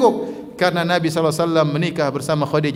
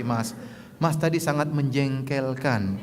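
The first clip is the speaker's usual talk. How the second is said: gentle; 5 dB quieter, slower than usual. Shown as a demonstration. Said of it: "Pelan-pelan".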